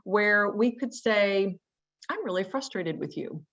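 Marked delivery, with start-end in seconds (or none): 2.1-3.4 calm, even and softer, no edge at all; a level demo of frustration without heat; matter-of-fact. Shown as a demonstration. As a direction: state the frustration flatly and plainly. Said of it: "that very matter-of-fact tone of voice".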